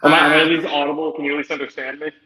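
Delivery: echoing muffled call audio; underwater. Real, not acted. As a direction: voice echoing on a bad line. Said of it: "I can hear you echoing".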